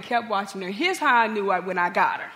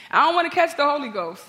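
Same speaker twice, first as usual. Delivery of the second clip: higher, louder imitation of a wary sister; mock protest; 6 semitones higher, 6 dB louder than usual. Sister balking at coming to her preacher sibling's church, mock protest. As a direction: blurt it out as a comic objection.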